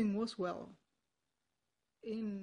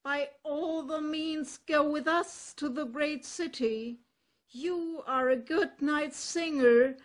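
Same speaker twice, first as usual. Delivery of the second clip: loud, bold donkey voice; a confident ass calling out to a friend; hearty donkey; 5 semitones higher, 5 dB louder than usual. Acted. Ass replies to the cat.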